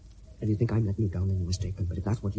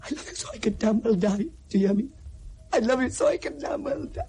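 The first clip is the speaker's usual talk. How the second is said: tearful declaration; 10 semitones higher than usual. Acted. Anguished declaration of love.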